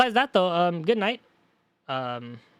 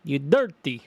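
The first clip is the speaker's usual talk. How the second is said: hammed-up Transylvanian accent; 3 dB louder, slower than usual. Shown as a demonstration. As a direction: try the insult in a Transylvanian accent. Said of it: "it sounds weird".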